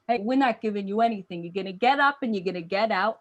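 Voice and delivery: quick, tough New Jersey refusal; strong New Jersey accent. Acted. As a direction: stand firm in a Jersey accent. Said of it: "they started out really strong, the people in New Jersey".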